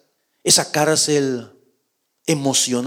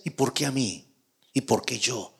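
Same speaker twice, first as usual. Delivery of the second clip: preguntas suaves y bajas; pregúntalo hundido, para sí; lamento; 5 semitones lower, 10 dB quieter than usual. Acted. Preguntas en la cueva. (lamento suave y bajo)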